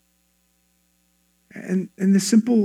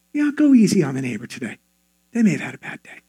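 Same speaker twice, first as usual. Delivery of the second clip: lower, easygoing nudge; gentle prompting; 5 semitones lower, faster than usual. Acted. God nudging a believer to be patient, gentle prompting.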